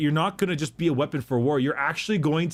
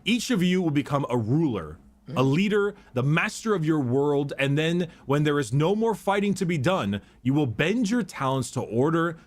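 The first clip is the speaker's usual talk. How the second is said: reading a quote. Acted. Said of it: "Quote time".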